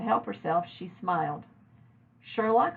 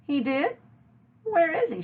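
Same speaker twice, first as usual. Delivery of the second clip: surprised question; 9 semitones higher, 3 dB louder than usual. A narrator's reading. Mother surprised.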